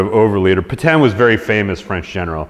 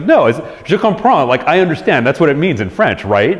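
incensed Churchill; 5 semitones higher than usual. Retold or imitated. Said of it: "He's like".

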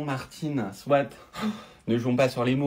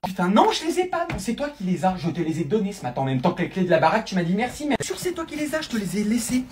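panicked accusation; 3 semitones higher than usual. Acted. Panicked passport argument.

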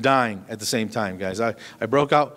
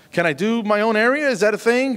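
squeaky, much higher pleading question; high embarrassed plea; 10 semitones higher, 3 dB louder than usual. Retold or imitated. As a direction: beg sheepishly in a high squeak. Retold embarrassed plea to nurse.

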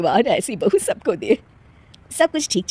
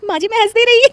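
high, half laughing, half crying; laughing apology; 14 semitones higher, 6 dB louder, faster than usual. Acted. Bride at the mourning visit, giggling helplessly. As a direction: fight the giggles at a funeral.

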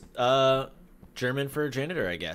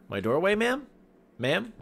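indignant; 10 semitones higher, 4 dB louder than usual. Pretend. Confronting woman blocking door.

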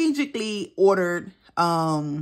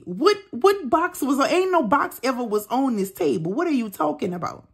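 disbelieving outburst; 6 semitones higher than usual. Retold or imitated. Panicked on phone with husband.

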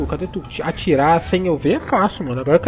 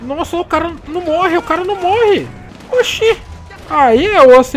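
exasperated high outcry; 9 semitones higher, 5 dB louder than usual. Real, not acted. Enemy will not die.

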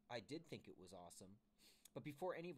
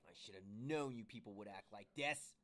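understated holler, louder on the end; exasperated holler; 5 dB louder than usual. Acted. Harvey scolds his friends, hollering in mild exasperation. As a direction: complain angrily, building to a louder finish. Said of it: "hollered Harvey".

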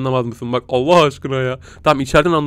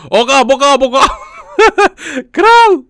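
high, loud mock gibberish; creature babble; 10 semitones higher, 6 dB louder than usual. Gamer imitating the creature's baby babble.

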